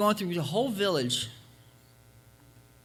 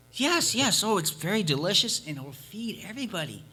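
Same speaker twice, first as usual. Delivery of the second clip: put-on little girl insisting; 3 semitones higher than usual.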